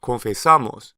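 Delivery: "Confesamos" said con-fe-SA-mos, with a plain e and no y glide; no ie sound. Shown as a demonstration. Teacher to learners, y sound dropped. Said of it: "the Y sound disappears".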